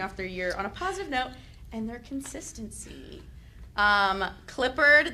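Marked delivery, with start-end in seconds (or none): 1.7-3.2 whispered aside. Real, not acted. Whispering to the school board. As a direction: drop to a whisper.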